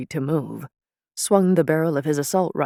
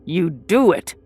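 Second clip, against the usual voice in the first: seething. Acted.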